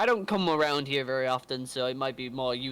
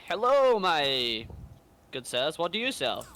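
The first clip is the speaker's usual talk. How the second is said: polite traveller voice; 3 semitones higher, slower than usual. Acted. Player greets shopkeepers in character.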